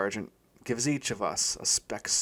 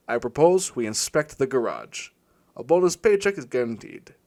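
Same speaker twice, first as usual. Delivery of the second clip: louder, pompous bureaucrat's proclamation; mock official announcement; 6 dB louder than usual. The speaker teasing his stalker partner, reading out a louder mock-official order. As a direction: announce it like a stuffy official memo.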